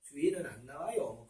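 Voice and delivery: lightly imitated Yanbian dialect, soft; a soft reply with a Yanbian Korean lilt; Yanbian accent. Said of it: "조선족인지 연변 사투리로".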